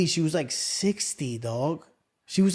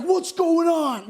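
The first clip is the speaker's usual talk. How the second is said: mocking eager EMT; 9 semitones higher, slower than usual. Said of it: "he's like".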